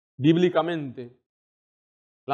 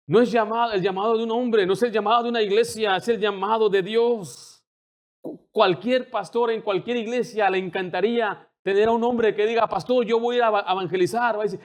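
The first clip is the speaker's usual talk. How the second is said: preaching at full force; 5 semitones higher than usual. Acted. Pastor urging the church to evangelize, in a fervent preaching voice. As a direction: drive the call home to the congregation. Preaching climax, higher and louder.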